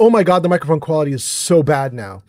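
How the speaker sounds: ordinary talk, nothing marked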